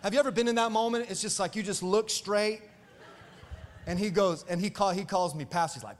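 ordinary talk

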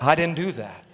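lightly acted deadpan denial; understated denial. God answers people who blame him, mildly deadpan. God's deadpan reply to accusation.

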